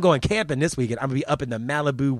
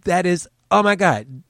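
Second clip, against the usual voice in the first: mock gasp; 5 semitones higher, 5 dB louder than usual. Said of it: "She goes".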